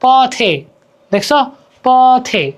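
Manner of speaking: পথে drawn out as "po-the", the e kept intact; unaltered final e. Shown as a demonstration. Teacher showing the word-final sound, clear drawn-out পথে. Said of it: "এর উচ্চারণ সাধারণত অবিকৃত থাকে".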